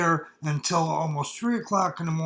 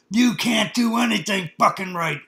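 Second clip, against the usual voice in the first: a retold scolding, somewhat louder and higher; mock yelling father; 5 semitones higher, 5 dB louder than usual. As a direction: scold the boy with a half-raised voice. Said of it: "yelling at me".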